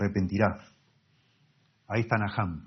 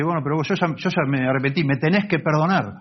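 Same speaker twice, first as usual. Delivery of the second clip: higher, entitled demand for forgiveness; demanding spouse; 5 semitones higher than usual. Acted. Unrepentant spouse demanding forgiveness, pushy and higher. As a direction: act out a spouse who insists on being forgiven. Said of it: "la otra persona dice".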